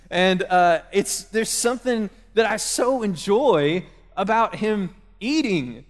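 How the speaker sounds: ordinary talk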